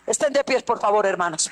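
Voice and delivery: "Estén de pie" called out high and loud; loud call to stand. Real, not acted. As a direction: lift them to their feet. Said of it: "Bueno, estén de pie".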